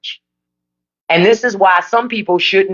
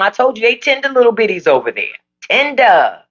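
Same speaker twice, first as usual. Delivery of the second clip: put-on quick, higher Southern-family accent; 5 semitones higher than usual. Answering Mel about the White House, family accent. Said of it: "You like that accent?".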